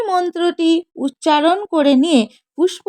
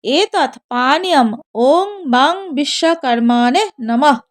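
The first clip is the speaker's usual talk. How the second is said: mantra recitation. Shown as a demonstration. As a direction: intone it like a priest at puja. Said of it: "বলবেন".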